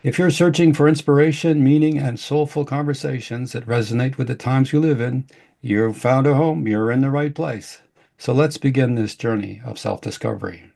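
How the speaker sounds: smooth announcer read of the show opening; podcast intro. Acted. Host opening the show for listeners, announcer voice. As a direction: welcome listeners like a radio host.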